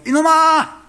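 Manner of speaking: sudden high, loud rebuke; booming divine scold; the Lord scolding. Acted. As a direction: bellow it down from heaven. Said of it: "근데 주님께서".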